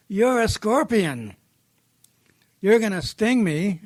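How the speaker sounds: lightly acted wary accusation; accusing frog. Frog accuses scorpion in story.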